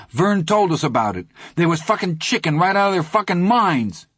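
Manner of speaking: high, jeering taunt. Acted. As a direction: rub it in. Teddy mocks the bullies.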